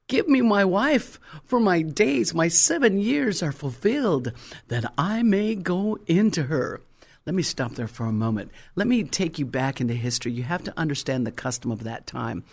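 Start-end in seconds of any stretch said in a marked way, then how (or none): 0.1-6.8 an impatient Jacob asking for his wife; Jacob demanding. Acted. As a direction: plead urgently as an eager groom. Jacob's demand, read aloud.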